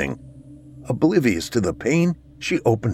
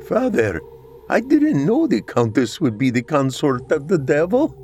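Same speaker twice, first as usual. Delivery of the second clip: pleading son; 6 semitones higher than usual. A narrator's reading. Son pleading with dead father.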